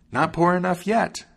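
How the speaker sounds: high-pitched bird taunt; high, vengeful little bird; taunting sparrow. A narrator's reading. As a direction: pipe it high, rising at the end. Sparrow taunting the ruined wagoner.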